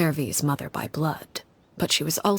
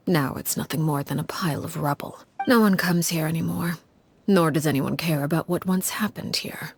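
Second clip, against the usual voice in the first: hushed storytelling. Acted. Harbinger tells the ruin's history in a hushed murmur. Telling a dark story in ruins.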